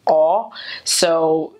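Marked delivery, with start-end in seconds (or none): 0.1-0.5 a long rounded New York "aw"; New York vowel. Retold or imitated. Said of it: "New Yorkers say".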